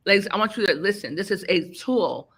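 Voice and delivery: slurred speech after dental work; speaking around a numb mouth; talking funny. Real, not acted. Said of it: "Yes, I'm talking funny. I had a, um, dental emergency".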